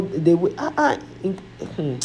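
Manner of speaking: fighting back tears mid-sentence; choked up. Real, not acted. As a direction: voice breaking, words stumbling. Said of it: "I was stammering because I was feeling very emotional".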